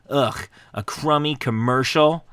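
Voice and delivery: annoyed ugh. Retold or imitated. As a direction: drag it out like the movie line. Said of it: "a reference to a movie".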